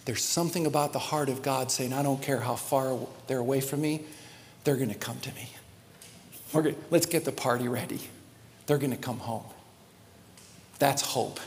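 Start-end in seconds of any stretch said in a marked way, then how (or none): 1.9-9.4 soft, lower, tender longing; God tenderly promising their return. Acted. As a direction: speak as a loving father waiting. Voicing the heart of God.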